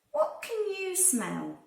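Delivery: usual speaking voice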